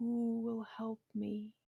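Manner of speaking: rasping, hushed male stage whisper. Voicing a mote of blue flame that calls for help: raspy whisper. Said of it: "a raspy whisper, a male voice going".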